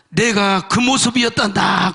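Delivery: lightly voiced solemn voice of the Lord; voice from heaven. The Lord answers the suffering man, a lightly solemn voice. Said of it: "음성이 와".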